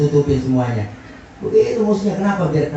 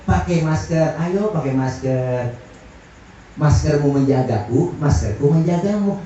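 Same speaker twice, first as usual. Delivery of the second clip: slow, coaxing slogan; pleasant, gentle appeal; 2 semitones lower than usual. Shown as a demonstration. Preacher suggests nicer mask wording, gentle slow appeal. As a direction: offer the kinder wording, unhurried. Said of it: "Pakai kata-kata yang lebih enak didengar".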